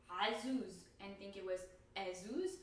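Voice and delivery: azuz with throaty ayn then plain ezuz; ayn versus a contrast. Shown as a demonstration. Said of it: "I would hear".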